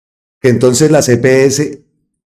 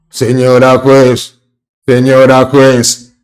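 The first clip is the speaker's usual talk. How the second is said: slow, drawn-out obsequious señora juez; lightly mocking a flatterer pleading with the judge; Uribe's fawning tone; slower than usual. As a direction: stretch out juez like a bootlicker addressing the judge. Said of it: "con ese tono".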